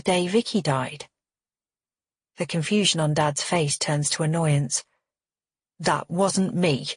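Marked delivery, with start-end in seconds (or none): 5.8-6.9 curt. Acted. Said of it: "he says curtly".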